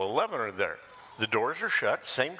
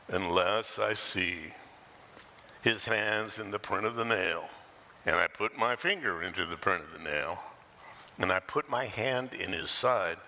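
Eeyore impression; 5 semitones lower than usual. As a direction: drag every word out like gloomy Eeyore. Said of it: "That's the best Eeyore I can do".

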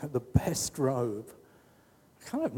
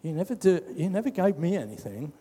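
whingy; 4 semitones higher, faster than usual. Retold or imitated. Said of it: "We can be whingy".

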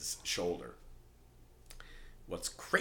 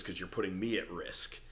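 lightly voiced tough guy impression; a hint of someone else's voice, level and firm; Mike. Parking attendant warning his client he's a risk, lightly imitated Mike. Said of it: "I can't talk about a Mike thing and not just use his voice".

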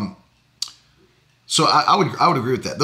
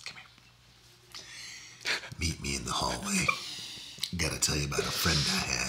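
creepy whisper; 12 semitones lower, 15 dB quieter, faster than usual. Pretend. Creepy hallway invite.

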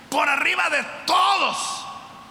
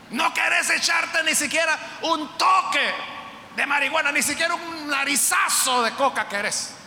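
tentación burlona; 2 semitones higher than usual. Retold or imitated. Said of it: "le van a decir".

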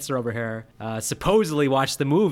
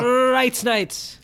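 high, loud mock-Transylvanian cry; hammed-up Transylvanian accent, pitched way up; 12 semitones higher, 6 dB louder than usual. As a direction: belt it out in a bad Transylvanian accent. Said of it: "the Transylvanian accent's what I'm looking for".

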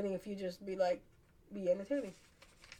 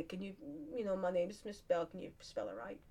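polite request; 8 dB quieter than usual. Retold or imitated. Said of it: "I just, like, politely say".

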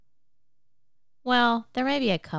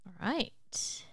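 soft unvoiced whisper; 6 dB quieter than usual. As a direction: whisper it to begin. Hushed start of questions.

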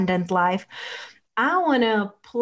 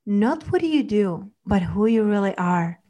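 guided meditation. Acted. Leads a relaxation visualization.

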